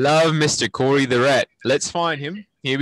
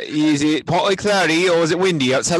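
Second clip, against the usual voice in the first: put-on New Zealand accent; 2 semitones higher than usual. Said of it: "Here we go, New Zealand accent".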